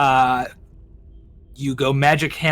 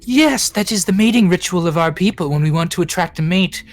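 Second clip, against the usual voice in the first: queen voice; 3 semitones higher than usual. Acted. Queen explains mating ritual.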